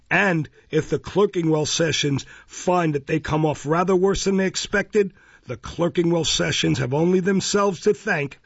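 pompous bellowing beadle threat; menacing. Acted. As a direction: loom over her, pompously. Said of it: "the menacing manner".

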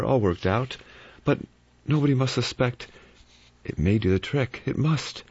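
a hint of cold calculation; cool scheming inner voice. A narrator's reading. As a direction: choose the victim calmly. Calm killer's inner thoughts.

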